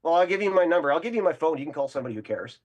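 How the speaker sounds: loud mocking brush-off, the last line fast; taunting. Student retells taunting the professor, loud and mocking.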